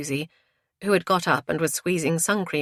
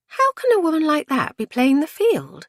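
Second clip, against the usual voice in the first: high, louder disbelief; scandalised high-pitched gossip; incredulous; 12 semitones higher, 5 dB louder than usual. A narrator's reading. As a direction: question it in a raised woman's voice.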